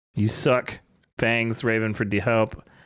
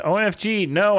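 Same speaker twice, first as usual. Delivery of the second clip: screamed; 9 semitones higher than usual. A narrator's reading. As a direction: shriek it like you're falling down a hole. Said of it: "I screamed as I fell down".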